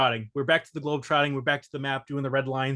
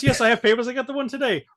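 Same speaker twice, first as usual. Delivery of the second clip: imitating Sallah; 9 semitones higher, 5 dB louder, faster than usual. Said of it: "Saul is like".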